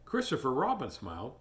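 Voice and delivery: put-on gentle read-aloud for children; storybook narration. A narrator's reading. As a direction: tell it like a bedtime story.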